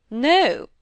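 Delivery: stern. Acted. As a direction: cut her off firmly like a grand lady. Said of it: "looking very stern".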